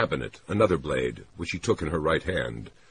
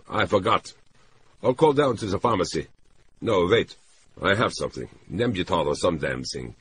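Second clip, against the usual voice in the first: lightly voiced man thinking aloud; a hint of a flustered helper; harried man character; 4 semitones higher, 3 dB louder than usual. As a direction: start raised, settle as the idea comes. Narrator voices man improvising help.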